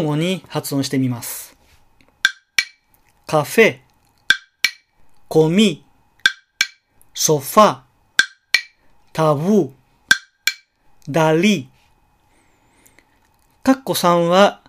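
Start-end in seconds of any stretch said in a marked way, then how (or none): 3.3-11.7 カフェ, コミ, ソファ, タブー, ダリ with the first syllable low and the second high; low then high. Shown as a demonstration. Teacher modelling low-high words alternating with a woodblock. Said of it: "最初が低くて、後が高い".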